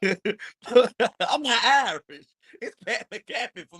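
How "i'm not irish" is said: laughing through the words, slow and broken; can barely get it out for laughing; laughing while talking. Real, not acted. Friend teased over a name, laughing while protesting. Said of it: "laughing through the words".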